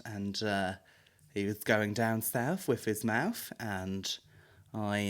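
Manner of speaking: low, soft mock confession; deadpan the story like an ad voiceover. Comic parody of an advert, softly deadpan.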